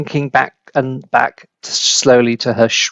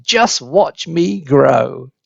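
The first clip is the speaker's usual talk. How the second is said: gloating; much slower than usual. Acted. Grandma gloating while growing.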